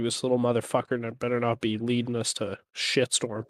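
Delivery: half-hearted whisper to a companion; mock whisper. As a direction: confide it under the breath, lightly acted. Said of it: "I'm gonna whisper to Scrog".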